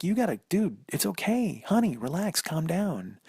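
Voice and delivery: gently calming him down; soothing. Retold or imitated. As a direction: soothe a panicky partner. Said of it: "Jill's like".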